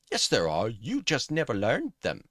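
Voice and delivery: wobbly put-on comeback voice; botched character voice. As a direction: jump up into a messed-up character voice. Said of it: "really messed up his voice there".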